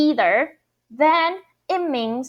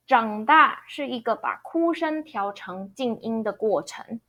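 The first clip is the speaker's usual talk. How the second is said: model sentence read. Shown as a demonstration. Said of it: "let's review one more time".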